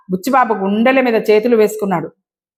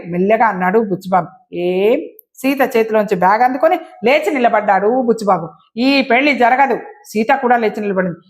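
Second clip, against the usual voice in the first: story narration. A narrator's reading. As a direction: read the story out, acting each character's lines. (నాటకీయంగా కథ చదివే స్వరం)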